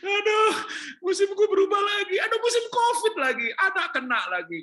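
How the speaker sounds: high, loud cry of dismay; loud lament. Real, not acted. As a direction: wail it out loud in mock despair. (ratapan keras dan tinggi)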